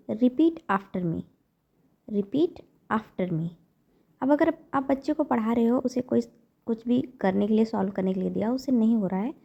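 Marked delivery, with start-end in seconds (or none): 0.1-3.5 very slow, clear words; slow model phrase. Shown as a demonstration. Teacher to parents, modelling a phrase very slowly. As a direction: say it slowly so they can copy. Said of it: "तो आप बोलिए".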